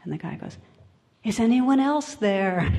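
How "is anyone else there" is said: loud, higher shout up the cliff; punchline called out for a laugh; comic calling out. Acted. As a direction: shout past God for anybody else, playing it up. Man calls out for someone else.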